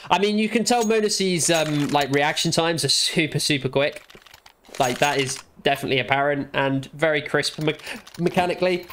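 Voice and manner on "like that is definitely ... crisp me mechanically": talking through hiccups; words broken by hiccups. Real, not acted. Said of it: "Sorry, I got the hiccups".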